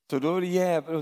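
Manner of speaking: loud, high proclamation of the devil; emphatic preacher. Acted. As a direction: declare it with fervour. (högt och ivrigt förkunnande)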